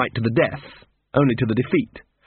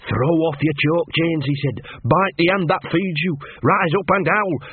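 rallying cry; 4 semitones higher than usual. Retold or imitated. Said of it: "he told 'em".

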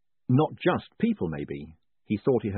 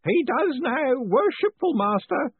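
happy shout; 5 dB louder, slower than usual. A narrator's reading. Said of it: "shouted Groat happily".

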